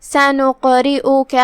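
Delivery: slow سَنُقْرِئُكَ with the qaf bounced; qalqala echo. Shown as a demonstration. Teacher demonstrates qalqala, سَنُقْرِئُكَ slowly with a bouncing qaf. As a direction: make the still qaf in سَنُقْرِئُكَ echo briefly, chanted evenly. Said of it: "قاف کو ہلاتے ہوئے یہ کلمہ کو ادا کریں گے".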